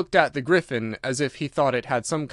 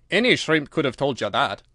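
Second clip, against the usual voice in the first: impatient. Acted. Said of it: "rather impatiently".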